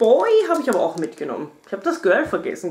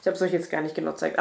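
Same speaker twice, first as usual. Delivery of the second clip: rushed, jittery and softer; too much caffeine; 4 semitones lower, 5 dB quieter, faster than usual. Real, not acted. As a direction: hurry it out, all jittery. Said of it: "ich bin so hibbelig".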